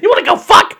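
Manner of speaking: high, excited mock proposition; hammed-up eagerness on the edge of laughing; Gabe. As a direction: squeal it like an overhyped party bro. Still imitating hyped-up Gabe to wife.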